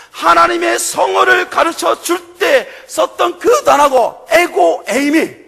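rising to a loud, slow, emphatic peak; preaching at full force. Real, not acted. Preacher proclaiming God's name to the congregation, loud and slow. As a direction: build it up and proclaim.

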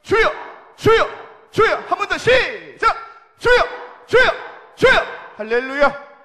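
huge, high congregational cry; real prayer shout. Real, not acted. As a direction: lead the crowd crying out at the top of your voice. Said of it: "우리 한번 주여 삼창 해볼까요".

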